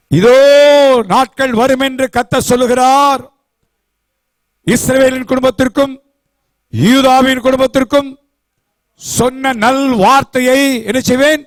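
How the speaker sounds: high-pitched formal reading of scripture. Acted. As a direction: proclaim the verse like a pulpit reading. Reads scripture aloud.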